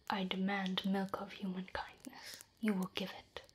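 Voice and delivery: demanding. Shown as a demonstration. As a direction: order it bluntly.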